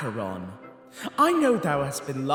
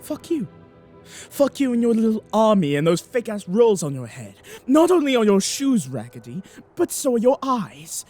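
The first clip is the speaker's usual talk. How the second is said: raised-voice stream of insults; angry tirade; 4 semitones higher, 5 dB louder than usual. Acted. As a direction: tear into the rival, louder.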